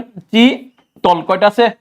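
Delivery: চিতল counted out slowly beat by beat; slow counting. Shown as a demonstration. Teacher counting the syllables of চিতল for students, slowly. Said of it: "চিতল উচ্চারণ করেন".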